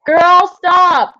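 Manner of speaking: loud, high yell at a dog; scolding shout. Real, not acted. Streamer to the barking dogs, real scolding shout. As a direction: call out sharply to stop the barking.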